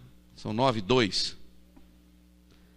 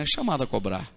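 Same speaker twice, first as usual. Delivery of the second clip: operator recording voice; 3 semitones lower, 3 dB quieter than usual. Retold or imitated. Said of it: "aquela moça tem uma voz tão bonita".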